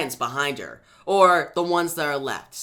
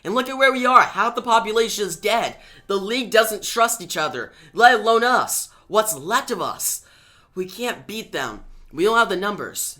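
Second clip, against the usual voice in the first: much higher and louder, pleading hard; desperate outburst; 6 semitones higher, 4 dB louder than usual. Acted. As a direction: near shouting in despair. Starfire argues they can't win.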